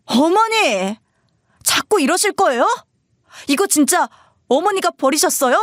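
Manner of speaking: high, upset confrontation; exasperated son. Acted. Husband asking mother whether she really threw it away, exasperated. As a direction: demand the truth with acted exasperation.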